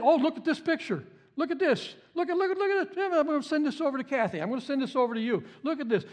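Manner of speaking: high, eager mock gushing over a picture; a giddy mock show-and-tell voice; mock gushing sharer. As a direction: play the friend who can't wait to share. Mimicking someone eagerly sharing pictures.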